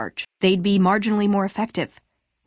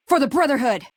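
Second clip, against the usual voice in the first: rallying shout; battle cry; 4 semitones higher than usual. Acted. Companion charging into battle for the Brotherhood, battle cry.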